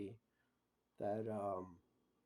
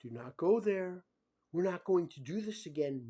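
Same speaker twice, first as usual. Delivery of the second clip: quoting her stern warning; 5 semitones higher, 7 dB louder than usual. Retold or imitated. Man quoting the woman who refused him, stern and cold. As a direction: hammer each word like a scolding administrator. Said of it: "She said, and I quote".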